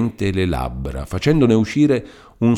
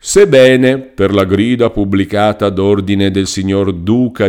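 lightly voiced lawyer rattling off an old decree; reading a decree aloud; 3 semitones higher, 6 dB louder than usual. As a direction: read the legal text aloud, rushing some parts. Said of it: "borbottando a precipizio in alcuni passi". (avvocato che legge la grida, borbottando in fretta)

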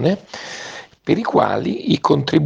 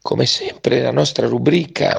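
hoarse from a cold. Real, not acted. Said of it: "scusate la voce stamattina, sono un po' raffreddato".

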